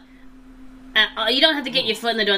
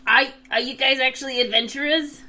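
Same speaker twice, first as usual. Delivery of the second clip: goblin voice; 5 semitones higher than usual. Acted. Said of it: "he goes".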